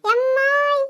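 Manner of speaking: high stretched call for mom. Acted. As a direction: call out to mother again. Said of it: "எம்மான்னு கத்திக்கிட்டே".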